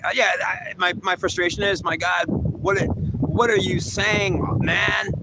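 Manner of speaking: real frustration spilling out as he reads; baffled exasperation at the commentary; frustrated. Real, not acted. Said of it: "Okay, so I'm getting frustrated".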